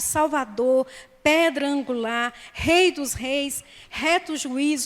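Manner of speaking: measured roll-call of holy titles; preacher reciting sacred names, phrase by phrase; declaimed litany. Real, not acted. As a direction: proclaim each title separately, with weight. Declaims list of names of Jesus.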